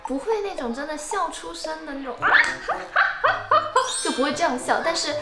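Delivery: big open laugh; loud laugh demo. Shown as a demonstration. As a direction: show how you'd laugh out loud.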